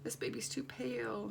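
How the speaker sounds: whispering to herself; hushed inner voice; whispered thought. Retold or imitated. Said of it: "and I'll think".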